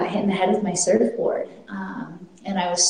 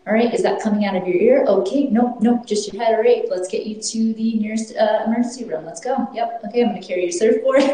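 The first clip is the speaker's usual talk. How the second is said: higher, brisk take-charge partner, mildly voiced; partner in chaos; 4 semitones higher than usual. Partner rushing her to the ER, briskly in charge, higher. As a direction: rattle off the plan like a calm fixer. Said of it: "Very good in chaos".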